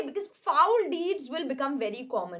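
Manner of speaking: slow, grave Shakespeare reading; dramatic recitation. Acted. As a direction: declaim each word slowly. Reads Shakespeare lines slowly. (धीमा नाटकीय पाठ)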